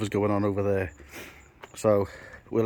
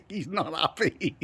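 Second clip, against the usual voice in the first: slow, higher, through giggles; laughing; 7 semitones higher, 3 dB quieter, slower than usual. Real, not acted. Teasing Brad about his sulk, words laughed out.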